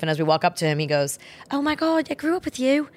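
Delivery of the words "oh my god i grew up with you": high-pitched fan's exclamation; starstruck gushing. Retold or imitated. Young star to childhood favourite, starstruck high gushing. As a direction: gush it high in delight.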